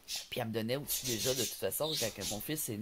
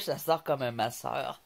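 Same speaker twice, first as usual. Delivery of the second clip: slow, awkward; 3 dB louder, slower than usual. Shown as a demonstration. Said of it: "ça se dit pas dans ma bouche".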